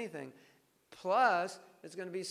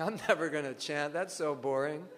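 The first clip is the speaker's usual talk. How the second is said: put-on bored kid complaining; 6 dB louder than usual. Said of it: "your kids are saying".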